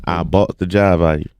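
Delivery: imitated Savannah Southern accent; thick Savannah pronunciation. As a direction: run it together like a Savannah local. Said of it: "That's Savannah".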